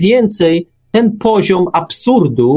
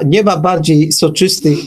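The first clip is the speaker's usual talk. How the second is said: usual speaking voice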